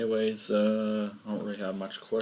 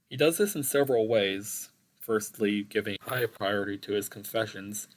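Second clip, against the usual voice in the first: reading an essay aloud; formal report reading; 3 dB louder, faster than usual. Acted. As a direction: recite a school presentation.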